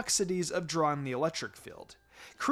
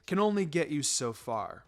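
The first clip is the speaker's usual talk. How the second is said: a lightly voiced easygoing teacher, lower and softer; a relaxed sensei praising his students; lightly lowered calm teacher voice; Kakashi's voice; 5 semitones lower, 3 dB quieter than usual. Kakashi lectures on taijutsu.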